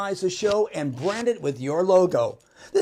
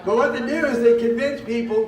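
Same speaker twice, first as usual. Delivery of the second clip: booming into the mic, a bit too loud; projecting hard before being turned down; loud pitchman delivery; 5 semitones higher, 8 dB louder than usual. Real, not acted. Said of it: "turn me down a little bit".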